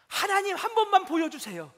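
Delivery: pleading prayer. Acted. Psalmist pleading to see God.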